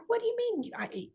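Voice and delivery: high, incredulous squeak; indignant disbelief. Retold or imitated. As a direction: act shocked and offended. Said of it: "and it's like".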